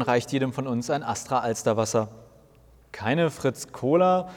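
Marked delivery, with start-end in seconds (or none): 2.9-4.3 a mildly let-down, slow question; a touch of sulking disappointment; disappointed. Acted. Jesus is offered beer instead of cola, mildly disappointed. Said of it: "fragt Jesus enttäuscht".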